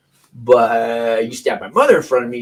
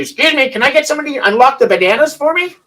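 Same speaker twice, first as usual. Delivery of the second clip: high, loud, overly polite shop voice; a put-on courteous customer asking an employee for help; mock polite request; 14 semitones higher, 6 dB louder than usual. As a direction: sweetly ask staff to unlock the bananas, hammed up. Asking Walmart staff, mocking locked bananas.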